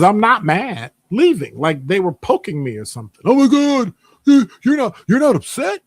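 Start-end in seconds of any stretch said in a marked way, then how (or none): 3.2-5.8 high, squeaky mock concern; mocking coworker. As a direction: parody their fake sympathy in a high voice. Coworkers poking him, mocked.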